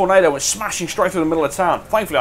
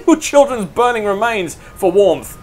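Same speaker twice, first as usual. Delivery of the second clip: laughing through it; 7 semitones higher, 4 dB louder, slower than usual. Real, not acted. Cruel punchline retold laughing.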